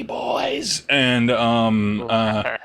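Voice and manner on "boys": much higher squealing call; shrill hag cry. Acted. The hag calls on its boys, high panicked squeal. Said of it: "just says".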